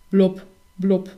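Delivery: bubbly fish-voice scolding; grumbling fish. A narrator's reading. Fish scolding the hazelnut in bubbly fish sounds. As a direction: blub it out like a cross fish. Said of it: "schimpfte der Fisch".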